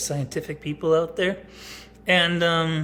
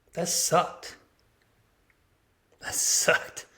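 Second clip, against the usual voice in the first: real whisper to himself; 3 semitones higher, much slower than usual. Real, not acted. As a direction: breathe it out under his breath. Quiet aside about leaving daughter.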